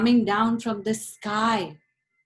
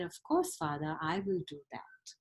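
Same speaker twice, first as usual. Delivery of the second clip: meek son; 4 semitones lower, 8 dB quieter than usual. Acted. Obedient son answers.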